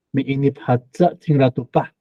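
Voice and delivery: 哈扎 with the weight on 扎, rising; stress at the back. Shown as a demonstration. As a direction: stress the final syllable 扎 in 哈扎. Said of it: "这个重音在后是这样哈".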